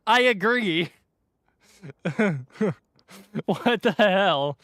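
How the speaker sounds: high, slow, laughing protest; laughing disbelief. Real, not acted. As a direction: laugh through the outrage.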